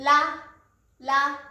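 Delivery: ラ said close to an L sound; teacher's demo of ラ with a light L-like start; L-like Japanese R. Shown as a demonstration. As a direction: model ラ clearly, its consonant near L. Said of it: "L の音に少し近いです".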